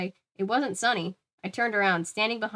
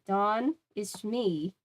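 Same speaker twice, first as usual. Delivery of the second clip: pathetic voice; 2 semitones higher, much slower than usual. Acted. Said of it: "I heard a pathetic voice say".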